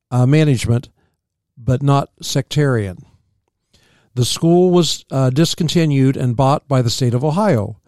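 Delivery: measured reading from a history book; read-aloud history. Real, not acted. Co-host reading about early settlers, read-aloud history. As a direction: read the facts out evenly.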